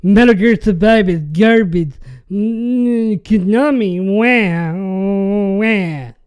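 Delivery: loud, sneering crybaby impression ending in fake wah wahs; mock the complainers like big babies throwing a fit; mocking whiny gamer. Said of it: "walking around going".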